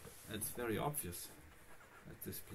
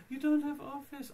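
high, loud outraged exclamation; shocked; 11 semitones higher, 5 dB louder than usual. Retold or imitated. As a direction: blurt it out in disbelief. Mimics shocked accountant.

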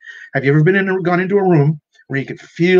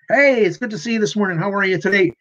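bright, higher, cheery hello to a grumpy coworker; joyful greeting; 6 semitones higher than usual. Retold or imitated. Supervisor greets a miserable department leader with joy. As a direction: greet him like he's your favourite person. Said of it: "with great joy".

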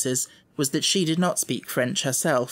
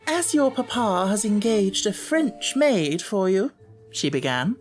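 stiff headmistress; 8 semitones higher than usual. A narrator's reading. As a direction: lecture the child with stiff dignity. Miss Minchin voiced.

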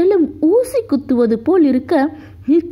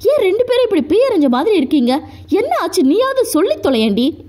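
a fast, higher, exasperated lightly voiced yell; mild mock yell; 5 semitones higher, much faster than usual. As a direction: demand an answer, fast and impatient. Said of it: "அவன் கத்த". (பொறுமையிழந்த லேசான கத்தல்)

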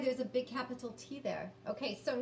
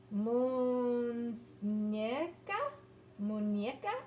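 unsure slow try; slower than usual. Real, not acted. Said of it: "I think that's it".

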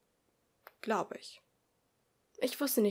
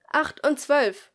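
loud, higher, slow announcement; slow call; 5 semitones higher, 10 dB louder, much slower than usual. Acted. Teacher slowly reads out the next pair, loud. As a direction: draw out the numbers.

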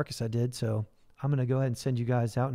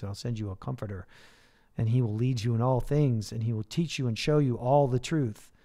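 earnest spoken prayer to God. Acted. Pastor closing the livestream with prayer, earnest. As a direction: pray it out, sincere and steady.

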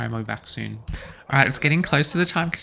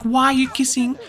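confused; 11 semitones higher, 5 dB louder than usual. Acted. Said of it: "She's gonna be like".

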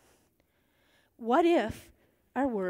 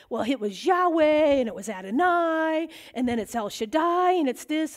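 louder, eager rush of names; excited mom rattling names; 4 semitones higher, 5 dB louder than usual. Retold or imitated. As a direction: pour out every name at once. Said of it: "So she just starts".

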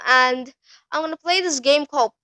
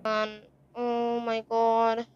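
scared hush; 4 semitones lower, 8 dB quieter than usual. Real, not acted. Scared playing horror game.

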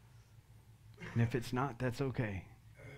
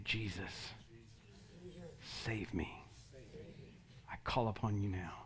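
quiet spoken prayer; 12 dB quieter than usual. Shown as a demonstration. Preacher leading listeners to call upon Jesus, softly and unhurried. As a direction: say it just loud enough to hear yourself, pausing for others to repeat. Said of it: "out loud, so you can hear it. You don't have to yell it".

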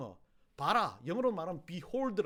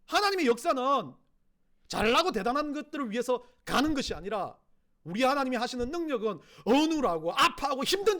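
loud, forceful preaching, pitched up; 5 semitones higher, 8 dB louder than usual. Real, not acted. Preacher pressing the congregation about humility, loud and impassioned. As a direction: drive each phrase home at full force.

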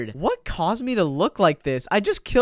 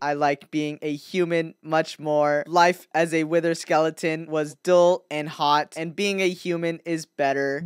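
skeleton impostor; 3 semitones lower, 4 dB quieter than usual. Acted. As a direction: explain stiffly as a creature posing as human. Impostor clone's voice.

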